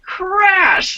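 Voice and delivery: high, drawn-out imitation of a lightning crash; dramatic crash. Storyteller mimicking sudden lightning, dramatic crash. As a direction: make the word burst like lightning.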